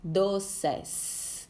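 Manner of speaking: Doces, holding the S at the end; Doces, final S drawn out for the class. Shown as a demonstration. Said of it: "Olha o som".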